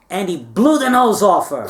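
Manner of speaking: laughing as he says it; a half-shouted laugh at the punchline; laughing exclamation. Real, not acted.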